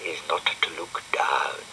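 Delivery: soft unvoiced whisper to himself; inner thought. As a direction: think it under the breath. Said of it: "he thought".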